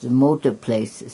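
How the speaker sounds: to someone hard of hearing. Real, not acted. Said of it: "Talk louder, please".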